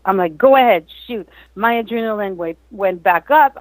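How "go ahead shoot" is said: eager retold go-ahead, a bit higher; fired up. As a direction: urge them on, keyed up. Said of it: "I'm all fired up".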